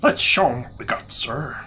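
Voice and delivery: whisper. Retold or imitated. Echoes game character's line.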